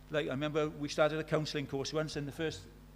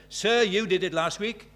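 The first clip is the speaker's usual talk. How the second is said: cheeky pupil; 3 semitones higher, 6 dB louder than usual. Retold or imitated. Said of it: "one of the cheeky ones".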